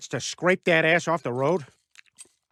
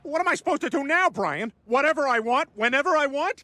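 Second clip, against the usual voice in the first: gleeful; 6 semitones higher than usual. Acted. Peter gleeful over losing his wife.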